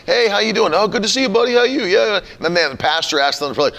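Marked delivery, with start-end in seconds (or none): 0.1-2.2 bright, high parking-lot hello; cheerful greeting. Retold or imitated. Churchgoer greeting a friend in the parking lot, upbeat. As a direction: greet a buddy casually and upbeat. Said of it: "And you were like".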